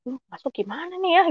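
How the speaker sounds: high, soft fretting to oneself; retold helpless wondering; confused. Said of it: "Saya bingung kan".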